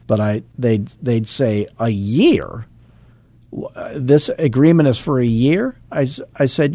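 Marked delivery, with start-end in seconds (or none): 1.8-5.8 imitated client's surprise, rising high; incredulous question. Client questions agent on the contract length, mock incredulous. Clients balk at year-long agreement.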